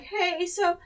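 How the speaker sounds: a small hint of put-on meekness; meek voice. She asks the staff lady in a lightly meek voice. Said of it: "putting on my kind of little meek sort of thing".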